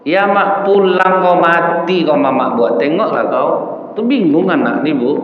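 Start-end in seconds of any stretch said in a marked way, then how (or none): 0.1-3.5 scolding mother. Retold or imitated.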